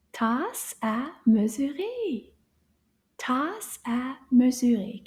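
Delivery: tasse à mesurer said slowly and carefully; French phrase. Shown as a demonstration. Teacher modelling the phrase for kids. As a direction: give each syllable of tasse à mesurer. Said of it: "do you remember the French word".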